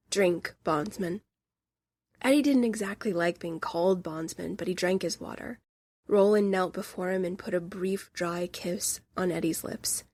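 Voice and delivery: lightly voiced reading from the novel; story narration. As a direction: read it aloud gently, like a shared moment. Reads passage aloud.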